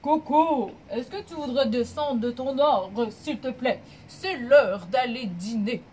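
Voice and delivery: loud call up to the tree; papa monkey. Acted. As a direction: call your child down to dinner, loudly. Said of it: "Papa Singe arrive au pied de l'arbre et dit". (papa singe qui appelle fort)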